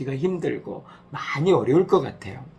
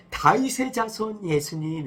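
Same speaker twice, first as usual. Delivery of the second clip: calling out; 7 semitones higher than usual. Acted. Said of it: "이렇게 부른 거예요".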